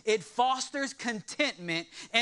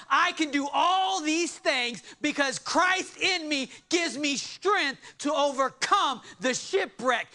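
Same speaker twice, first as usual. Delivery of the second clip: rising, fervent preaching as Paul; 5 semitones higher than usual. Acted. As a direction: build to a near shout at "the stoning". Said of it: "Paul is saying".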